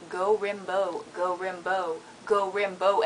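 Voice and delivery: Rimbaud said "rim-bo" in a chant; French pronunciation. Shown as a demonstration. Quoting a singer's lyric, Rimbaud as "rim-bo". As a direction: Rimbaud ending on "bo", no d. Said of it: "it's not. It's".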